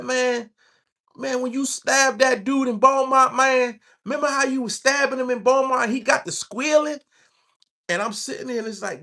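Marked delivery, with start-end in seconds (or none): 0.0-7.0 put-on crazy white boy bragging. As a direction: lightly play the gleeful inmate. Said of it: "crazy white boys".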